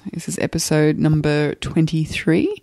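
hoarse from the flu; rough, croaky sick voice. Real, not acted. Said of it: "If you'll excuse my croaky voice".

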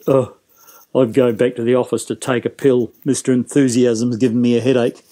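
mock weary grumble; imitated sour staffroom complaint; old battle axe. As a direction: grouse like a fed-up old teacher. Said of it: "one of the old battle axes say".

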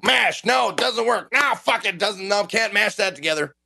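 fumbling in frustration; frustrated muttering. Retold or imitated. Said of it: "I'm like".

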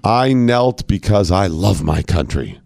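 slow, solemn self-righteous quote. Retold or imitated. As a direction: read it like a proud declaration. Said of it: "There it is. Free at last".

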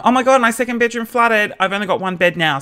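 high-pitched mock panic; feigned dismay. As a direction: fake an awkward emergency. Acts out feigned flatmate emergency.

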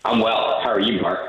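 hollow echo from a tiled bathroom; talking from an echoey bathroom. Real, not acted. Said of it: "You sound like you're in the bathroom".

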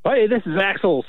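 laughing, exaggerated American accent with dragged vowels; strongest American accent. Shown as a demonstration. Coach demonstrates his strongest American accent. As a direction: lay the American accent on thick. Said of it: "put on your, like, strongest American accent".

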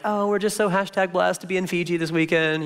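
mock self-satisfied bragging, lightly voiced; a hint of a showing-off influencer; smug Instagram brag. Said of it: "wanna be up on Instagram".

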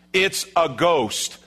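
stretched, emphatic acted cry; emphatic declaration. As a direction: declare it as the only explanation. Replays the disciples' assessment emphatically.

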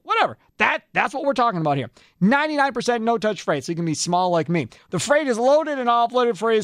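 upbeat host-read commercial; radio ad read. Acted. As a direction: sell it like a radio spot.

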